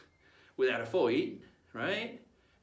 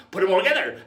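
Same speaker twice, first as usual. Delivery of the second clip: loud, raised-pitch pirate call; rowdy rallying shout; 4 semitones higher, 10 dB louder than usual. Acted. Pirate gathering the crew's voices together, shouting. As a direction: call out to the whole crew. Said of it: "And then they enjoy going".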